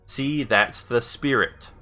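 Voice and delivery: slow, evenly spaced words; careful command. Real, not acted. Player retrying a voice command, slow and careful. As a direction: say it slowly for a machine to catch.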